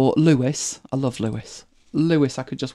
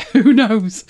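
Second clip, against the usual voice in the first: Who knows said louder through a laugh; 5 semitones higher, 6 dB louder than usual. Real, not acted. Host cracking herself up over the Pet vaccine joke, laughing.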